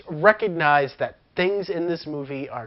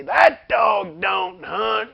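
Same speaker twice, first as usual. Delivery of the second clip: Texan drawl; much slower than usual. Retold or imitated. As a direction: lay on a thick Southern twang. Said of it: "you just hear him say".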